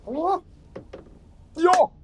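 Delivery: high-pitched gasp into a loud cheer; real triumph. Real, not acted. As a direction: celebrate the roll, stretching the last words high. Celebrating a lucky dice roll.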